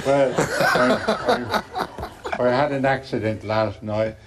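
laughing through a put-on English accent; half-laughed English accent; laughing Irish-English. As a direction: laugh while doing the English voice. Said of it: "I started talking like that".

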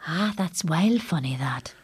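casual Ulster dialect. Acted. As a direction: say it in a Northern Irish Ulster dialect. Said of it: "she's doing the Ulster dialect".

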